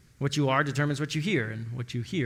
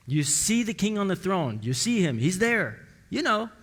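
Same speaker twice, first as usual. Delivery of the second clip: higher, louder, mock-eager; preacher mimicking a shallow churchgoer, pitched higher; 7 semitones higher, 4 dB louder than usual. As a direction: play the distracted believer. Preacher mocks shallow seeing.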